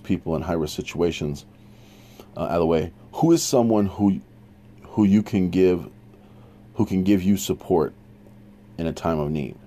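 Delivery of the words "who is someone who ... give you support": real stumble with false restarts; stumbling over words. Real, not acted. Teacher garbling a question to the class, stumbling and restarting. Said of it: "Sorry, I stumbled across that one".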